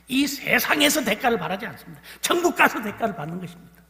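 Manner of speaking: loud, high preacher's declaration; fervent preaching. Real, not acted. Preacher proclaims to teachers, loud and fervent. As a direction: proclaim it to the congregation.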